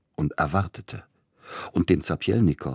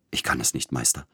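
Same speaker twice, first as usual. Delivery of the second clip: despairing; 4 semitones lower than usual. A narrator's reading. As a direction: sink into helplessness. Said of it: "schrie Sapielnikow".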